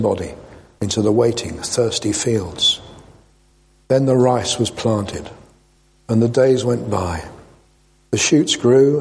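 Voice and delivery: measured, expressive parable reading; story narration. A narrator's reading. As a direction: read it as a solemn storyteller, with pauses between phrases. Reads a parable aloud.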